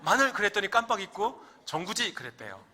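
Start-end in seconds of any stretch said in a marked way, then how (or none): 0.0-0.3 very high, loud sentry shout; shouted challenge. Acted. Gyeongsang sentry challenges approaching soldier, loud high shout. 1.7-2.1 raised Gyeongsang dialect answer. Acted. Forgetful soldier answers the sentry, in Gyeongsang dialect. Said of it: "경상도 버전입니다".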